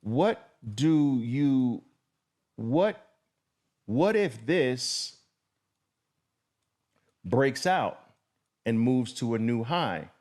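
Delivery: a hint of a sceptical student; doubtful trader. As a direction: ask it like a puzzled trader, lightly voiced. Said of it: "some traders say".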